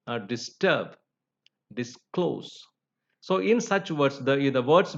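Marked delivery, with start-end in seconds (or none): 0.2-1.0 "disturb" with weight on -TURB; stress on last syllable. Shown as a demonstration. Teacher showing learners the stress rule, stress on last syllable. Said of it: "stressed on the last syllable". 1.7-2.7 "disclose" with weight on -CLOSE; stress on last syllable. Shown as a demonstration. Teacher showing learners the stress rule, stress on last syllable. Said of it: "stressed on the last syllable".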